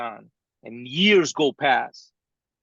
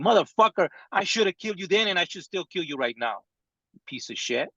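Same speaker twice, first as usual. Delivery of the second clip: retold angry thought; 4 semitones higher, faster than usual. Father reliving his rage at his adopted son, retold furious curse. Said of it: "I was still angry with him".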